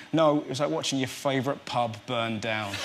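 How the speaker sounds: deadpan West Country bloke; West Country accent. Retold or imitated. New father describing the birth, West Country accent. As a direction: West Country voice, dry punchline. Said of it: "you're doing the West Country accent there".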